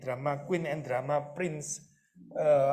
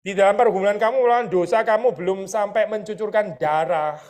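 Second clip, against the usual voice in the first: emphatic proclamation; 4 semitones higher, 8 dB louder than usual. Acted. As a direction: hammer the verse at the congregation. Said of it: "quoting Hebrews forcefully".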